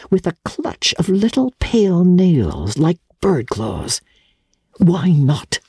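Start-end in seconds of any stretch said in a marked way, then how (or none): 4.8-5.6 searching. A narrator's reading. Grandmother searching Archer's eyes, probing repeat. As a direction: press "Why not?" as if reading his face. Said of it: "she searchingly repeated".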